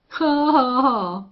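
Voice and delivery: a harsh scornful ha ha ha; bawled laugh. A narrator's reading. The rustler mocks the rancher's son with a loud laugh. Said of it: "bawled the rustler".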